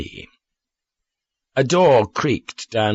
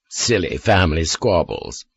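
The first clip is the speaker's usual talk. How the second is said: vague; 3 semitones lower than usual. Acted. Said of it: "I said vaguely".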